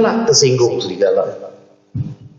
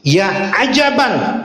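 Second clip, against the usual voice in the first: amazed shepherd; 7 semitones higher, much slower than usual. Acted. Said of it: "Jadi kata pengembala kambing".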